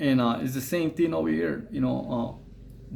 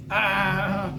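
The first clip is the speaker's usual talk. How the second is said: mock laugh on a drawn-out, higher "ah"; imitated laugh; 4 semitones higher than usual. Neighbor laughing at the drawing he was shown, imitated laugh. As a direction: imitate him laughing with one long "ah". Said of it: "he started fucking, uh, laughing".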